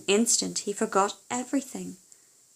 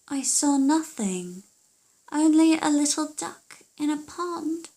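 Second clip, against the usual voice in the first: daughter reporting; 7 semitones higher, 4 dB louder than usual. Acted.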